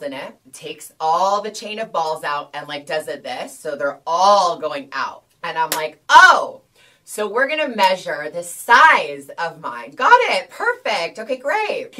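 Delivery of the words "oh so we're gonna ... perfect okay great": high, loud, forced cheerful; awkward fake enthusiasm. To the doctor measuring her, forced loud cheer. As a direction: cover the cringe with a bright loud act. Doctor laying out the bead chain.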